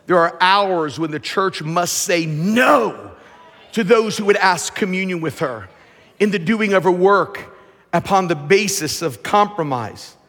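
full-force preaching, unhurried. Real, not acted.

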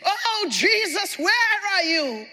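drawn-out, pleading cry to Jesus; mock shouting. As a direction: imitate a panicked believer calling out, slowly. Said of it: "How do you start shouting".

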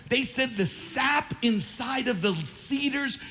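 high-pitched, impassioned pulpit preaching; fired-up preaching. Acted. Preacher rallying the church about sap and old saints, fired-up preaching. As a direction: preach it with full force, voice lifted.

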